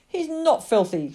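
put-on high, loud childish contradiction; shouting. Lily shouts at her father for the cat, high indignant protest. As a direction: shout back in defence. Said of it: "shouted Lily".

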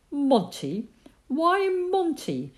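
high, slow puzzled question from the mother; surprised mother. A narrator's reading. Mother puzzled by the kitten's name, rising surprise. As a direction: lift it in disbelief.

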